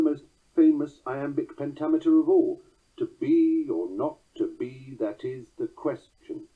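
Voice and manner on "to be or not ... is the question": slow "To be or not to be", leaning on BE and NOT; "question" stressed first, weak last syllable; accented verse reading. Shown as a demonstration. Lecturer having listeners count accents, slow scanned "To be or not to be". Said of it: "note the accents".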